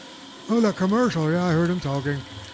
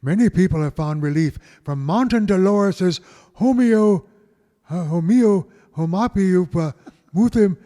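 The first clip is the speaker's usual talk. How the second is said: radio announcer. Acted. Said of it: "I sound like Ricky Radio".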